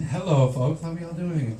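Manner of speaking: hammed-up greeting that lifts in pitch; mock stage greeting. Comic pranking the crowd as he walks on stage, mock greeting.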